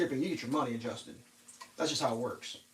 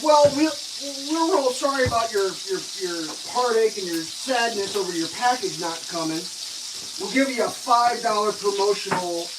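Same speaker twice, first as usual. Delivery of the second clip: higher, louder hammed-up sympathy, fading to plain; mock apologetic agent; 4 semitones higher, 3 dB louder than usual. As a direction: lay the fake sorry on thick. Mocking support agent apology.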